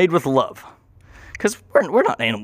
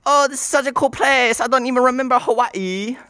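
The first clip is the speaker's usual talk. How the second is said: much higher put-on tourist voice; mock visitor voice; 9 semitones higher than usual. Visitors to Chanstopia gushing, in a much higher put-on voice. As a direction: gush like an awed visitor. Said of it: "you don't gotta talk like this".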